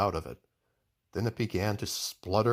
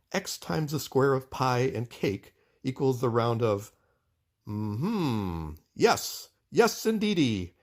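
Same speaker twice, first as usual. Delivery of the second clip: pondering inventor; 2 semitones higher, slower than usual. Acted. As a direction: mull the sums then light up. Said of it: "muttered to himself".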